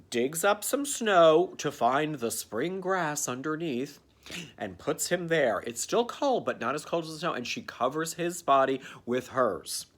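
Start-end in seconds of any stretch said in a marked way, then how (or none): none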